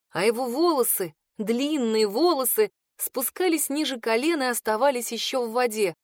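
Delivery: plain reading voice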